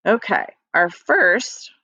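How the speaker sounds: ordinary delivery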